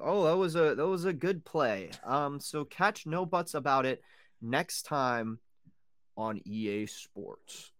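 slow, loud game announcer voice; Madden commentator. Pretend. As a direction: call it like a video game commentator. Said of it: "you sound like a Madden commentator".

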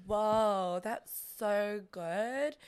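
put-on slow, drawn-out valley girl gush; a light valley girl put-on; dumb valley girl. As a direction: play the ditzy reality-show girl. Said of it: "we would kind of be like".

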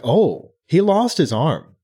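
mock shocked realization; slow dawning realization. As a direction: say "Oh, he lost his arm" as the penny drops, "lost" stretched and stressed. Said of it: "that's when we're like".

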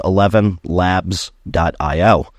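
"eleven labs dot I O" said slowly, each part spelled out clearly. Shown as a demonstration. Telling podcast listeners the exact website, slow and clear. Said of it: "That's the word".

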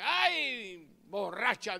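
loud, sneering jab at a woman; brand her a drunk with contempt; scornful accusation. Retold or imitated. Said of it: "le dijo".

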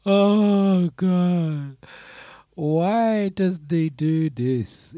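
loud, high, drawn-out laughing despair; exasperated laughing groan. Real, not acted. Moaning to her friend about the bill, laughing loudly. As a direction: groan it out slowly through the laughs.

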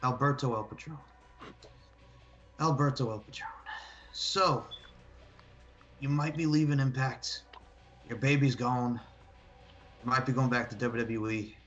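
heel wrestling promo; trash-talk a rival wrestler. Pretend. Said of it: "Okay, I'll do one".

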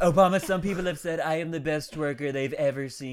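lightly voiced presidential boasting; a hint of a bragging president; Trump impression. President boasts to a rival before the twerk-off, light impression. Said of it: "Trump, and Biden are all talking".

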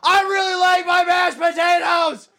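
very high, stretched mock shout; imitating the yelling. Parent mimics child yelling about mashed potatoes, mock shouting. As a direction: bellow a trivial remark in a high kid voice. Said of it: "He says".

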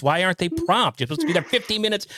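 retold mock panic, pitch climbing; freaking out. Host retelling his wait for his late guest, freaking out. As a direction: fret aloud in mild exasperation, building to a rush. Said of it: "I was sitting here freaking out".

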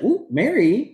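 high, drawn-out ooh of delight; impressed ooh. Retold or imitated. Cohost reacting to Mary's callout with a high delighted ooh. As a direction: savor the drama. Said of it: "And I was like".

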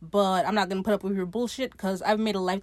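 mildly exasperated retelling; fed up. Retold or imitated. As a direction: act out someone who has had enough, lightly. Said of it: "she's had it up to here".

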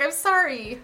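drifting into a Connery impression; Sean Connery. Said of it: "like, Sean Connery for some reason".

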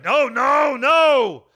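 high, loud, drawn-out cry of refusal; terrified plea. Acted. Scrooge begging the spirit, high terrified cry. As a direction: cry out in desperate horror.

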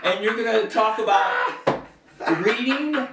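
high, laughing disbelief; laughing incredulous rant. Retold or imitated. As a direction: rant it while cracking up. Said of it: "I wanted to say".

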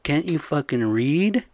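angry yelling. Retold or imitated. Yelling at electricians in muddy boots, angry loud shout. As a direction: blow up at them, dragging out the last words. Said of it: "I'm like".

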